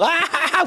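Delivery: mock burst of ha-ha laughing; imitated student laughter. Teacher mimics the delighted students, mock laughter. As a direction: imitate a class cracking up. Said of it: "웃으면서".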